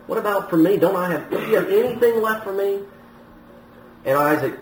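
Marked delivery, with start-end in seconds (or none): 0.0-2.8 pleading, pitch climbing higher toward the end; lightly acted desperate begging; mock distressed plea. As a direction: plead as the distressed son, without real tears. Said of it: "he's greatly distressed and he's crying bitterly".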